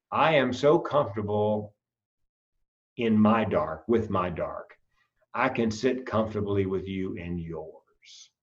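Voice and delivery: tender quoted words; quiet sincere quote. Retold or imitated. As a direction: lay the quote down softly, like a comfort. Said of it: "now I quote her".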